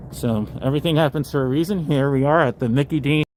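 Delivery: muffled through a mask; talking through a face mask. Real, not acted. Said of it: "let me take this mask off here so you guys can hear me properly".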